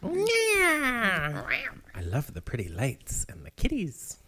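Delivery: slow, dreamy drugged-up voice; woozy and spaced out from anesthesia. Retold or imitated. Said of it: "Sorry, I'm drugged up".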